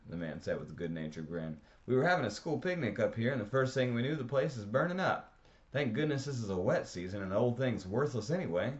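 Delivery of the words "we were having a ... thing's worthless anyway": higher, louder, excited explaining; a lively man raising his voice near a fire. A narrator's reading. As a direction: tell it fast and keyed up, over the noise.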